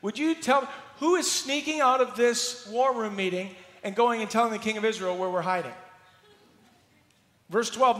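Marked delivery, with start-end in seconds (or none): 0.0-5.7 higher, louder accusing demand; the enraged king grilling his war room, loud and high; angry king. Acted. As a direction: fire it at the officers. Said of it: "He's saying".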